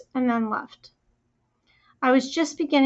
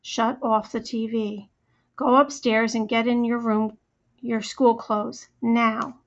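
danger tone. Acted. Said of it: "her voice down low in the danger tone".

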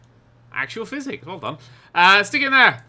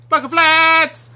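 loud, high, drawn-out shout; stretched gleeful yell; mock battle cry; 10 semitones higher, 9 dB louder, much slower than usual. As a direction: holler BLOCK OF FLATS slowly as a charge.

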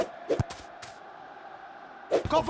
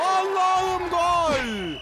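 slow, stretched goal scream; screaming football commentator; 3 semitones higher, much slower than usual. Acted. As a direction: drag out the goal cry. Goal call in football game.

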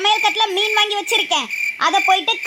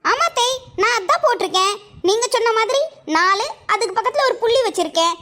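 naive daughter-in-law. Acted.

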